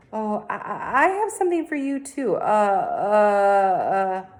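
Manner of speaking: stammering fussy lady voice; Mrs Yarby voice. A narrator's reading.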